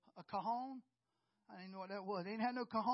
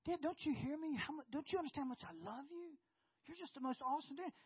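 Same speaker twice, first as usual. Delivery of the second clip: daughter voice; 5 semitones higher than usual. Retold or imitated. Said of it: "She goes".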